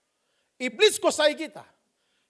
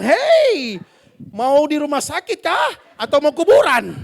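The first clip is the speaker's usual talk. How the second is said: mock threat; 2 semitones higher, 5 dB louder, slower than usual. Wife threatening husband.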